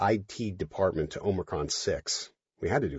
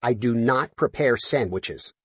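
snorting; 4 semitones higher, 3 dB louder, slower than usual. Acted. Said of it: "Chip snorted".

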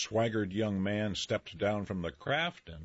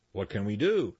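cried out; 4 dB louder than usual. Acted. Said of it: "cried Mister Busy".

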